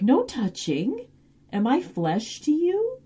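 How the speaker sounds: high, slow unhinged plea; mock crazed Spike. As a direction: lightly play a crazed vampire pleading.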